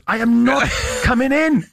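slow, high-pitched retold refusal; emphatic refusal. Partner refusing to meet the famous guest, mock-indignant refusal. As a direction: dig your heels in, mimicking stubbornness.

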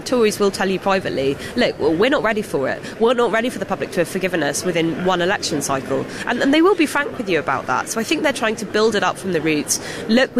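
usual speaking voice

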